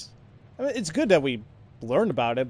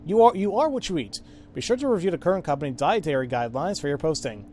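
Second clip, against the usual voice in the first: peppy corporate reminder read-out, pitch jumping up on slogans; company announcer read; 2 semitones higher than usual. Acted. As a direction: read it like an upbeat company wellness notice. Reads company reminders aloud in game.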